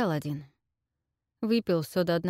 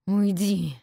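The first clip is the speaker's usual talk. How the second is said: moaned; 2 semitones higher, 5 dB louder than usual. Acted. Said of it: "простонал Сет".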